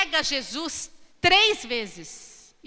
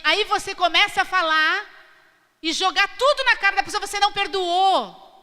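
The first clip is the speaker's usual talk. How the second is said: mock accusing; 6 semitones higher, 5 dB louder than usual. Mocking grudge-holding spouse.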